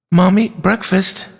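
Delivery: put-on high, slow little-girl voice; child coaxing mother. A narrator's reading. Chloe shaking her sick mother awake, high, slow coaxing. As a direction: draw it out high, trying to rouse her.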